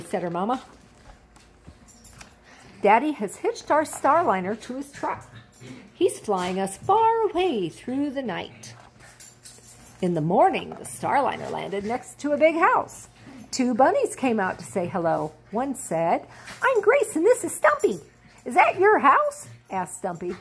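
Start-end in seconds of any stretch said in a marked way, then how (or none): 2.8-8.7 mama gently marvelling, slowing down; soothing mama. Acted. Mama explains the night ride. 16.6-19.5 very high, louder little bunny; small bunny girl, high and bright. Acted. Bunnies greet Stella.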